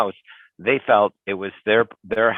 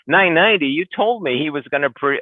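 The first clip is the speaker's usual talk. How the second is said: surprised; 7 semitones higher, faster than usual. Acted. Agent acts out surprised counterpart.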